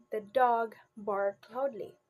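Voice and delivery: loud, emphatic barked in "dog barked loudly"; stress on BARKED. Shown as a demonstration. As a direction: hit the word barked firmly. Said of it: "the stress is now on bark".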